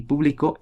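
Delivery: "público" stressed on the final CÓ; stress on last syllable. Shown as a demonstration. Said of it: "es aguda".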